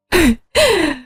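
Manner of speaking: high sobbing wail; hammed-up mourning sob. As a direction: break into a howl of grief. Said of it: "대성통곡을 하더라고요".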